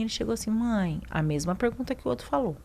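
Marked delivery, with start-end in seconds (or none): 0.5-1.0 imitando de leve um médico carinhoso; cuidadoso e carinhoso. Retold or imitated. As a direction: chame a mãe com cuidado. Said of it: "com muito cuidado, muito carinho". (com carinho e cuidado)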